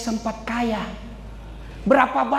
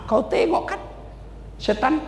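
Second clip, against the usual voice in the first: God speaking; 6 semitones higher than usual. Acted. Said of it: "Apa kata Allah?".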